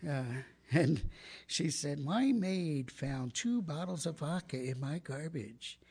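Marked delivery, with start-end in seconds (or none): 2.0-5.8 lightly voiced prim rich lady; a hint of hoity-toity self-importance. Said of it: "she was from a hoity-toity neighborhood".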